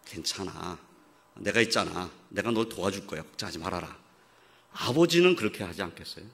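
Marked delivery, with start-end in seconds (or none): 0.0-4.0 lightly voiced tender father; reassuring father. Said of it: "다독거리고".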